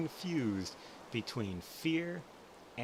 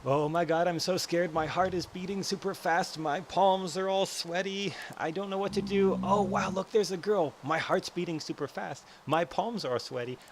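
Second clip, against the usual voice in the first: higher, louder, hammed-up scared rush; mock panic; 7 semitones higher, 6 dB louder than usual. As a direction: play a guy panicking on a shaky bridge. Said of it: "the guys' brains are going".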